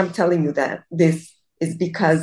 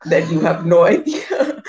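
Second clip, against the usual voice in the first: laughing; 3 dB louder than usual. Real, not acted. Embarrassed, laughing at herself.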